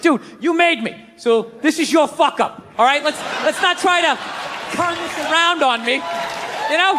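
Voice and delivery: indignant outburst at the creator; angry rant at God. Acted. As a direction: tell God off, pitch up and pushing. Ranting at God as if face to face.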